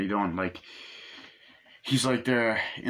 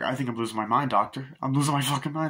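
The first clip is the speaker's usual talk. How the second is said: imitating a patient getting worked up; mild mock hysteria, pitch climbing at the end; mildly hysterical; 4 semitones higher, faster than usual. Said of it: "I think he's a bit hysterical".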